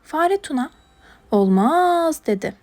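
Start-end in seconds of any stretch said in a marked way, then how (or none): 1.3-2.3 firm refusal. Acted. Mouse refuses Mina's plea.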